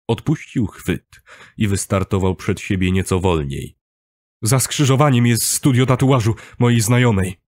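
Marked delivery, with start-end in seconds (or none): 4.4-7.4 raised, higher-pitched voice; talking loudly. A narrator's reading. Kuba cutting off narrator, talking loudly. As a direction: talk over him, leave no gap. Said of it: "mówił głośno".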